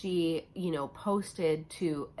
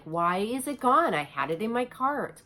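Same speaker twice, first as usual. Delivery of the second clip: frustrated whine; 4 semitones higher, 4 dB louder than usual. Retold or imitated. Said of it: "I'm like".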